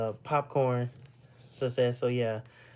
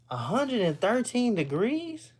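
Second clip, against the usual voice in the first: slow, high, incredulous question; can't believe the number, drawn out higher; stunned disbelief; 8 semitones higher than usual. Real, not acted. Streamer reacts to heat number, slow high disbelief. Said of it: "that's crazy".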